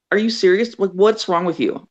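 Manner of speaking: imitated friend's high-pitched disbelief; exasperated friend. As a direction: scold a clueless pal in mock outrage. Friend scolds her for refusing.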